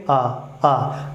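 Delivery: open, relaxed आ straight from the throat; easy throat vowel demo; effortless aa sound. Shown as a demonstration. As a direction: let आ flow out with no effort. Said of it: "देखिए यहाँ से आवाज़ आई".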